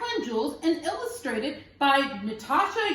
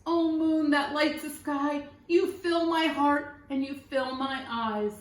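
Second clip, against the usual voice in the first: prayer to the moon. A narrator's reading. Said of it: "Abraham prayed to the moon".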